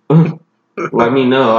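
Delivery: laughing, slow and drawn out. Real, not acted. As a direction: chuckle through the words. Joking about cleaning passion.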